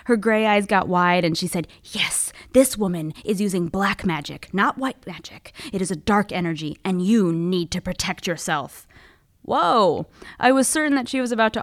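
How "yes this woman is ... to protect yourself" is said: mystic psychic. Retold or imitated. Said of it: "go all in on her mysticism".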